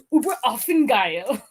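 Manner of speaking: mock German YouTuber; German accent. Showing off the one remembered German phrase, playful German accent. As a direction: imitate a German YouTuber with gusto. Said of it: "that's my best German I can do".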